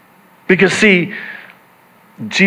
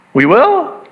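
surprised disciples; 9 semitones higher than usual. Acted.

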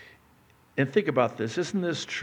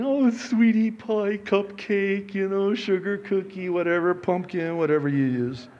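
higher, cooing pet names; mock newlywed sweet talk; 9 semitones higher, 5 dB louder than usual. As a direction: imitate gushing newlyweds, stretched and pitched up. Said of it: "even the way you talk to each other".

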